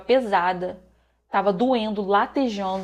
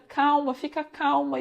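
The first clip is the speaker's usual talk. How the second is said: higher, slow calming voice; drawn-out, mild reassurance; retold soothing; 4 semitones higher than usual. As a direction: imitate a nurse gently urging calm. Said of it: "tentando me acalmar".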